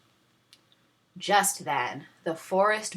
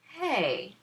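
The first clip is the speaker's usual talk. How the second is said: put-on 1 girl's realization; 7 semitones higher, 4 dB quieter than usual. A narrator's reading. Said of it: "she told herself".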